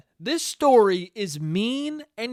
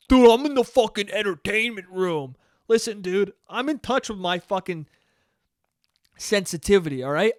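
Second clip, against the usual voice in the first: mock macho guy; 3 semitones higher than usual.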